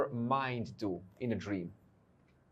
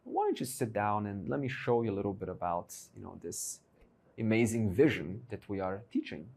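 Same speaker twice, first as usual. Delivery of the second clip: mildly acted calm, a little softer; calm composure; 3 semitones lower, 5 dB quieter than usual. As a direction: invite them gently, with composure. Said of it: "with a very calm composure".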